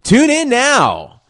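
very high, slow and loud; high drawn-out plea. Acted. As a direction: stretch it out in a high sing-song. Mock radio plea.

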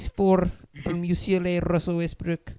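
put-on Hispanic accent starting lineup call; mock Hispanic announcer. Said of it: "I would love a Hispanic announcer".

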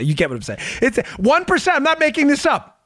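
usual speaking voice

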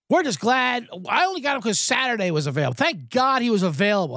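mock owner voice.

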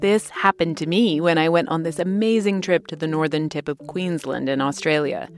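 lively sponsor anecdote with punched words; ad read. Acted. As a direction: tell the trip like an enthusiastic advert. Host tells sponsor travel anecdote.

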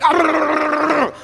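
a hint of Miles, a short high grunt; Miles impression. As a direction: mimic a colleague's quick high "ah". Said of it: "That's a pretty good Miles".

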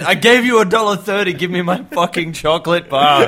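loud, high furious rant at machine; angry shouting. Pretend. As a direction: yell in vending machine rage. Smacking the vending machine.

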